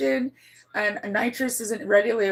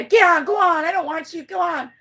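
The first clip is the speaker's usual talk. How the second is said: higher-pitched shooing, loud at first; mild retold shooing; 6 semitones higher, 5 dB louder than usual. Owner tries to keep this cat away, mock shooing. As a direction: lightly act out driving an animal off.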